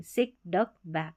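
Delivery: सिक डक बैक said softly with short vowels; सिक डक बैक, short vowels, no push; short, no pressure. Shown as a demonstration. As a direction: let सिक डक बैक drop out lightly. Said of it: "यहाँ पर इतना pressure की ज़रूरत नहीं".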